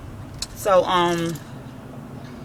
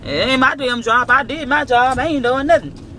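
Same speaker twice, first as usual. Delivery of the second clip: uncle's voice; 3 semitones higher than usual. Retold or imitated. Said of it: "That's how my uncle talk".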